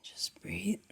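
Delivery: calm, gently guiding meditation voice; settled meditation guidance with long silences; guided meditation. Acted. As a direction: ease listeners into stillness, unhurried.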